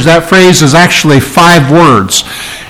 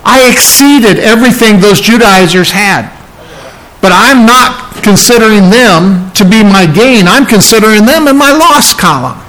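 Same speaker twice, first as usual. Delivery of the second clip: impassioned Paul; 4 semitones higher than usual. Retold or imitated. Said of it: "He says".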